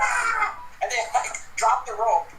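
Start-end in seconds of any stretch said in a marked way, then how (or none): 0.0-0.6 startled Ewok yelp. Acted. GM voices startled Ewoks.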